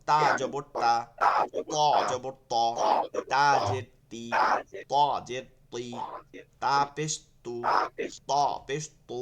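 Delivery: তা জবর তা set against ত জবর ত, each syllable clear and separate; contrasting thin and thick letters. Shown as a demonstration. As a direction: read তা and ত in pairs so the difference is heard. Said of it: "আমি পড়াই দিতেছি".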